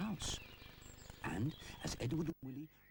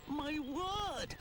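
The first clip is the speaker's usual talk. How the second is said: mild gasp. A narrator's reading. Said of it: "gasps Rupert".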